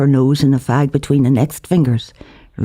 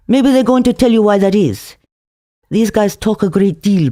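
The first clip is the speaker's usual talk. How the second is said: Musa's wry voice; 7 semitones higher than usual. A narrator's reading. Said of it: "said Musa".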